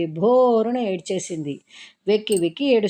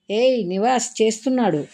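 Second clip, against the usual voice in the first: eager; 5 semitones higher, 5 dB louder than usual. A narrator's reading. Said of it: "ఆత్రుతగా".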